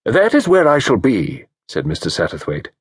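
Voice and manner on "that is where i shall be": regal autocracy. Acted. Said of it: "speaking with a kind of regal autocracy".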